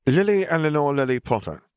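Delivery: put-on high, bright little girl reading her own name; a child proudly spelling out her name; young girl's voice. A narrator's reading. Little girl writing her obituary, high child's voice. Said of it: "she said as she wrote".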